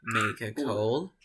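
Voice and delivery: slow, drawn-out teacher's model; slow model phrase. Shown as a demonstration. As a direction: say it slowly for learners to repeat. (frase modelo, dicha despacio)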